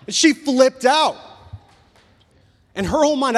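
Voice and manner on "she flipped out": slow emphasis. Real, not acted. Ranting about wife's fear.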